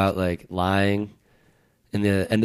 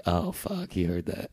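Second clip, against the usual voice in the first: hushed realization; 2 semitones lower, 8 dB quieter, slower than usual. Retold or imitated. Comic telling friends about being overheard, hushed. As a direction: replay an under-the-breath "uh-oh" moment.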